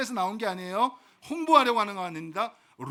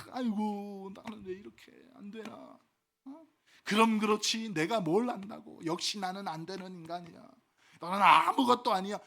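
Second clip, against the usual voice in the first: self-pitying sigh. Retold or imitated. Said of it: "그렇게 스스로 비하고 하면".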